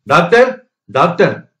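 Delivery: a moderately forceful shout for help; calling out. A narrator's reading. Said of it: "என்று கத்தினான்". (கத்திக் கூப்பிடும் குரல்)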